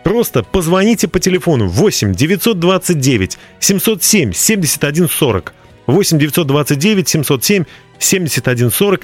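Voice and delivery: upbeat radio promo read; infomercial. Acted. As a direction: sell it like a radio ad.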